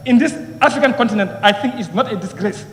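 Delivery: ordinary talk, nothing marked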